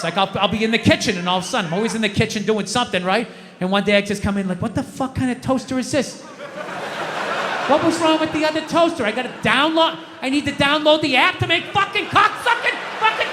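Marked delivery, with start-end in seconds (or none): 4.6-13.3 mock screaming rant. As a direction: rage at a new toaster, half-hearted. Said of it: "Dad, don't scream like that".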